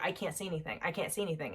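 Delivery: quiet, understated retelling of distress; subdued reply. Retold or imitated. Retelling her reply to the kids.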